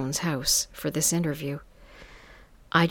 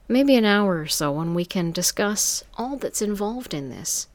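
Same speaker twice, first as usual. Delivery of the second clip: higher, sultry madam voice; 4 semitones higher, 3 dB louder than usual. Acted. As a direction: purr it like a smooth madam. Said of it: "this sultry voice answered".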